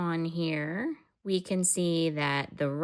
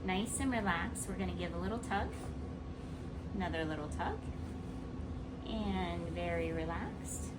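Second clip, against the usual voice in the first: soothing; 6 dB quieter than usual. Real, not acted. Adjusting patient, soothing her.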